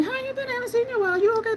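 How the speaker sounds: high, bubbly friendly-clerk voice; imitating Deb. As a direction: pitch way up as the chatty saleswoman. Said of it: "then she'll just rush over to me".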